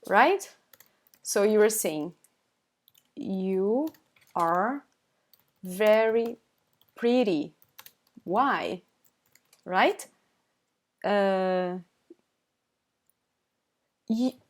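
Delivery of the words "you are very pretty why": long pauses between words. Shown as a demonstration. Teacher explaining what the learner said, word by word. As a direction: set out each word separately.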